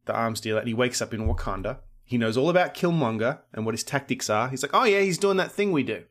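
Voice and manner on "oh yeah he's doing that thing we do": lightly voiced agent, pitched higher; a hint of an agent spotting a familiar trick; knowing recognition. Agent recognising his agency's own tactics, mild higher-pitched recognition.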